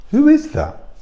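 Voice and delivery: high, startled who is that; puzzled question. Real, not acted. Vlogger wonders about the woman behind the camera, high startled. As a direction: ask it high in disbelief.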